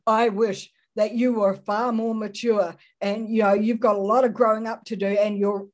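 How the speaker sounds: a hint of a disappointed, belittling tone; faintly sniffy talking-down, fast at the end; lightly mocking condescending voice. Preacher imitating a shaming voice, lightly condescending. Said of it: "it's said in a tone that ... puts you down".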